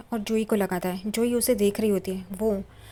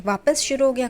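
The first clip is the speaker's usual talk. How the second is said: higher, louder irritated snap; exasperated, raised voice; angry retort; 4 semitones higher, 6 dB louder than usual. Retold or imitated. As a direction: fire it back, annoyed he's at it again. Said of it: "एकदम गुस्से से देखने लगती है".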